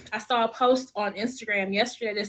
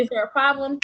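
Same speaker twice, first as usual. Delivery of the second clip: protective granddad; 3 semitones higher, 5 dB louder than usual. Retold or imitated. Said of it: "That's what he gonna say".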